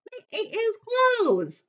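high, slow, playful punchline. Acted. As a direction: draw out the joke. Punchline delivery.

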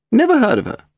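put-on high, haughty elderly lady; very old woman. A narrator's reading. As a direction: play a grand, frail old aristocrat. Lady Delamore dismissive.

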